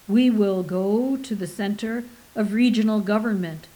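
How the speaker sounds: deep, resonant, booming pronouncement; a deep voice announcing the destination. Acted. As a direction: boom it out like an oracle. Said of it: "he said in a deep and resonant voice".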